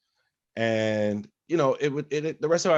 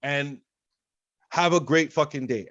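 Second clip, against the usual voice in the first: replaying a furious quit to the boss; retold angry rant; 3 semitones higher than usual. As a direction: lay into the manager in front of everyone. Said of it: "that's when I snapped".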